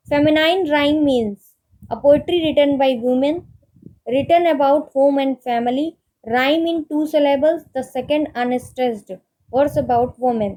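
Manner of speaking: reads the question word by word, very slowly; slow dictation reading. Acted. Teacher reading a quiz question to students, slow dictation pace. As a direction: spell out each option slowly for note-taking.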